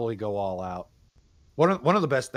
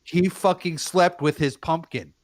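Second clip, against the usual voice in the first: drawn out, every word punched; slow and loud, stressing each word; slow emphatic disbelief; 6 semitones higher, 7 dB louder, slower than usual. Real, not acted. Disbelieving story about brother's pumpkin.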